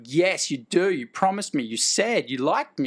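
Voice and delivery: insistent, mildly hammed-up appeal, stretching key words; mock eager actor. Actor diving at a chance with a director, mock eager. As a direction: imitate an over-keen actor pleading. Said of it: "would be diving at the chance".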